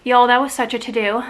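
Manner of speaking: breathless after screaming; panting, still out of breath. Real, not acted. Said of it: "I'm still out of breath".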